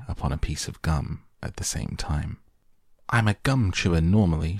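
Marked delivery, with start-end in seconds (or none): 3.1-4.6 shouting. Acted. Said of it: "she shouted".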